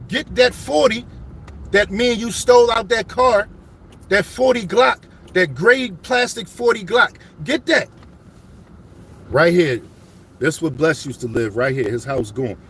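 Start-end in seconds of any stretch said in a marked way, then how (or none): 0.1-7.9 urgent pleading. Retold or imitated. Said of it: "This is our gun".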